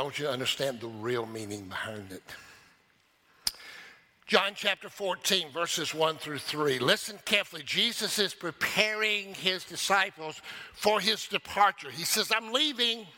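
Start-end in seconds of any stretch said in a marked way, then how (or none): 4.3-13.1 high, driving pulpit delivery; impassioned preaching. Real, not acted. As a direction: preach it with full energy. Preaches with rising force.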